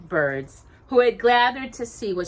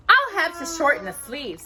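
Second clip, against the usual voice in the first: thoughtfully; 10 semitones higher, 4 dB louder than usual. Acted. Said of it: "Cinderella said thoughtfully".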